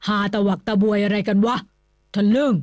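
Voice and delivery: loud, gruff telling-off; scolding. A narrator's reading. Old nobleman scolding two laughing friends, angrily loud. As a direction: bark at the two rascals. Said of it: "ดุในลิงทั้งสอง".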